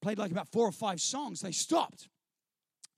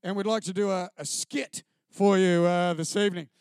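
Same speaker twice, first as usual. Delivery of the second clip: lower, louder singer addressing the crowd; a lightly voiced singer, lower and louder into the microphone; lead singer on the mic; 3 semitones lower, 6 dB louder than usual. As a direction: play the earnest church singer at the mic. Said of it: "he said".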